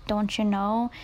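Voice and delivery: mock Wisconsin "don't you know"; Wisconsin accent. Call center worker imitating Wisconsin callers, Wisconsin accent. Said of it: "an Iowan accent or a Wisconsin accent".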